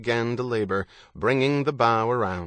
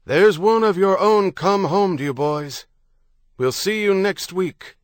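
high, loud singsong announcement; blaring loudhailer; 9 semitones higher, 7 dB louder than usual. A narrator's reading. Loudhailer handing a newcomer over to the boys, blaring call. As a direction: call it out across the water. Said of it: "the loud hailer blared".

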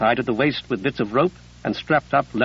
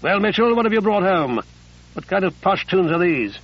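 snapped; 4 semitones higher than usual. Acted. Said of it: "Grove snapped".

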